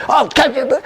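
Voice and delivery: high, cheery call over; club owner calling. Retold or imitated. Club owner beckoning the boy over, high cheery call.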